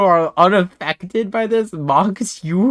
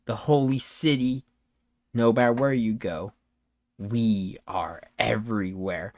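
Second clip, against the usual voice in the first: low, soft, slow villain voice; menacing cultist villain; 5 semitones lower, 5 dB quieter than usual. Acted. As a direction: quietly menace them, in measured phrases. Plays the cultist after a soft chuckle.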